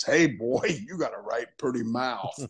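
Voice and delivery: hint of a leering mountain man, chuckling through it; mock hillbilly. Retelling the boss's casting pitch, lightly doing the hillbilly line. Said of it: "one of the two guys in the woods with Ned Beatty".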